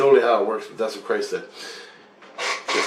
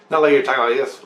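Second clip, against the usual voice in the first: quick-fire demonstration of fast speech; sped-up talking; 3 semitones higher, 4 dB louder, faster than usual. Shown as a demonstration. Showing what faster does not mean, rattled off quickly. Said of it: "like sped up times two".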